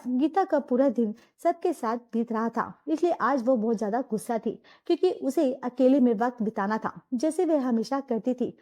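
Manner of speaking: low, even storyteller voice; story narration. A narrator's reading. Narrator telling the family story, in a low even narration.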